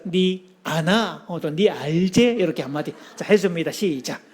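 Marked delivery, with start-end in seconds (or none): 0.0-1.2 very slow Gyeongsang dialect, drawn out; gruff Gyeongsang husband. Shown as a demonstration. Pastor models a slow terse Gyeongsang line to wives. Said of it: "자기 아내를 향해서". 1.5-2.3 Gyeongsang accent. Shown as a demonstration. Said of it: "자기 아내를 향해서".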